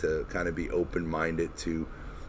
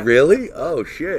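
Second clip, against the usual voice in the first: surprised; 10 semitones higher, 9 dB louder than usual. Real, not acted. Reacts to new name news.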